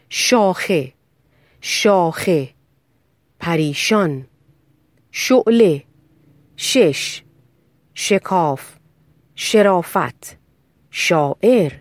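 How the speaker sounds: isolated model words with a clean sh, as in شاخه; careful, unexaggerated sh in شعله and شاعر; correct shin pronunciation. Shown as a demonstration. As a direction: say شاخه and each word after it separately for students to repeat. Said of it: "مثال برای تلفظ صحیح حرف شین".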